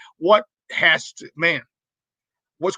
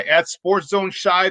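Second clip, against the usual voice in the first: slow repeat; 2 semitones higher, much slower than usual. Shown as a demonstration.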